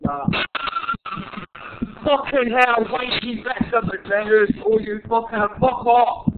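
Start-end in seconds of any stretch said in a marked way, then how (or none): 2.0-6.3 real exasperated cursing. Real, not acted. Cursing at the horror game.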